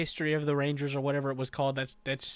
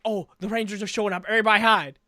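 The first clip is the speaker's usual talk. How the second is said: quick, higher retold alarm; mock panic; 4 semitones higher, 3 dB louder, faster than usual. Villains warn that Rangers are coming, mock panicked. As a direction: imitate villains scrambling, louder on the last words.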